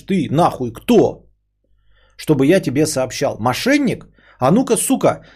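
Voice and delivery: rising angry yell at a caller; angry retort. Retold or imitated. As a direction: snap back at the caller, furious. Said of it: "Я скажу".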